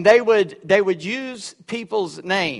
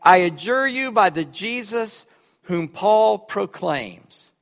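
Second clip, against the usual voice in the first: slow solemn quote; slower than usual. Retold or imitated.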